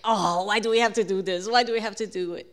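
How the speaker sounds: exasperated groan of a complaint, lightly acted; mock complaining. Family sweating uphill on bikes, mock complaining. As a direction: whine about having to do it.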